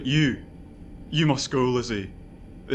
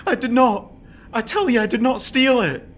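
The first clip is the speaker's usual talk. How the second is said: louder and higher, furious insistence; angry denial; 5 semitones higher, 5 dB louder than usual. Acted. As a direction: refuse the accusation outright. Husband angrily denies theft to wife.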